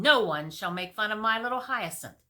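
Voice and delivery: loud indignant decree; queen protecting her son. Acted. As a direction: defend the baby.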